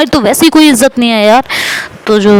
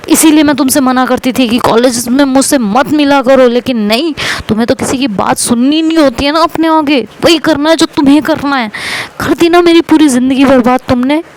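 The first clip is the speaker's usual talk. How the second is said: raised, accusing complaint, a bit higher; mock angry quarrel; 4 semitones higher than usual. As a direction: scold her friend for ruining her life. Friend's angry quarrel retold. (नकली गुस्से में शिकायत)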